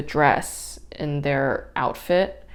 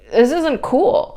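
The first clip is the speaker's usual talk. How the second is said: much higher, louder, slowed protest; indignant protest; 9 semitones higher, 6 dB louder, slower than usual. Retold or imitated. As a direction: drag it out in outrage. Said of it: "But I'm like".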